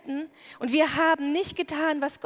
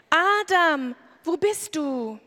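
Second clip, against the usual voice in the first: louder call, Adam ringing out; 2 semitones higher, 4 dB louder, slower than usual. Acted. God calling out to hiding Adam, a loud call. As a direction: call across the garden for someone hidden.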